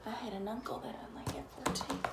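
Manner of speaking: soft, fast whisper; whispered aside. Real, not acted. Mother whispering to her child about the giant, hushed. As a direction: whisper it in awe.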